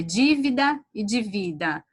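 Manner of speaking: dívida stressed on the first syllable, divida stressed on the middle syllable; contrasting stress. Shown as a demonstration. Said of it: "São duas palavras iguais, com entonação diferente". (dívida com acento na primeira sílaba, divida com acento no vi)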